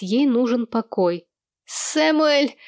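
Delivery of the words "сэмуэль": angry wife yelling for husband; hoarse angry shout. A narrator's reading. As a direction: bark the name furiously. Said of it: "охрипшим гневным голосом".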